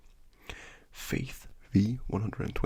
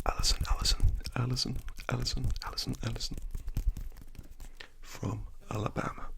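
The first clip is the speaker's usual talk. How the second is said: ASMR whisper. Acted. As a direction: whisper good night gently, like ASMR.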